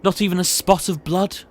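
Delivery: looming, menacing posh boss; sinister boss. Acted. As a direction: build dread as you reveal the secret. Boss reveals the dark secret.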